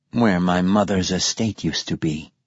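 faint synthesized whisper; papery whisper. Acted. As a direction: breathe it out like worn paper. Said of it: "whispered Martin Silenus's synthesizer".

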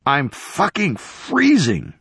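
slow, strained cold complaint; voiced freezing man. A narrator's reading. Trapped Peter telling Sarah he's freezing, slow and strained. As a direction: make them hear how cold you are.

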